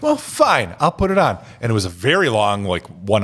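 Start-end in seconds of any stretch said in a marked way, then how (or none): 0.0-1.4 grudging. Retold or imitated. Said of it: "So I was like".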